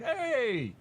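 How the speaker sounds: high, slow sing-song voice; high squeaky voice. Retold or imitated. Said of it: "I'm like".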